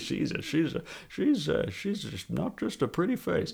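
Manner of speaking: high, soft mock patronizing voice. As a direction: coo it like a condescending 60s exec. Mocking sexist voice, high.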